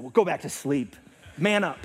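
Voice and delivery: loud, joking no-nonsense order; mock stern dad. Dad jokingly pretending to scold daughter, mock stern. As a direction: pretend to order a child about. Joke of a harsh dad reply.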